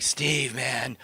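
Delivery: lightly imitated surfer bro; a touch of surfer dude greeting a pal. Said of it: "talk like the surfer dude".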